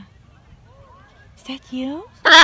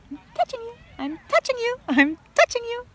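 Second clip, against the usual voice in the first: playful teasing; 10 semitones higher than usual. Pretend. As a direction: tease the bird gently. Teasing the bird.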